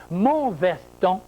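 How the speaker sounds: «mon» stressed, slow. Shown as a demonstration. Teacher stressing «mon» for the class. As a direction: weigh «mon» slowly. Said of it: "quand je dis «mon»".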